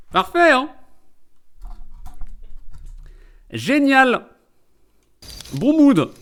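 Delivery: high-pitched, exclaimed fake approval; sarcastic delight. Streamer applauding gloomy news about a grandfather, sarcastic delight. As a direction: pretend the grim mood is wonderful. Mock cheer after death announcement.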